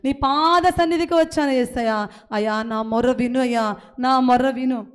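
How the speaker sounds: a believer confessing to God, pleading; earnest confessing prayer; model prayer. Acted. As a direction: pray it as one of the flock.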